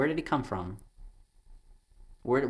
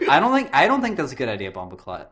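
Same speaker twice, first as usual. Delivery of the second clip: hammed-up fake Jamaican accent; 4 semitones higher, 6 dB louder than usual. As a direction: gibberish Jamaican voice. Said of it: "how to do a Jamaican accent".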